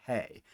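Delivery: "hey" said as a clean model syllable with a breathy h start; teacher demonstrating the rough breathing sound. Shown as a demonstration. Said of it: "it's gonna sound like".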